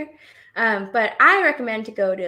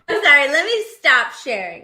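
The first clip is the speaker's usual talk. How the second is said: laughing; 3 semitones higher, 6 dB louder than usual. Real, not acted. Still laughing at the picture.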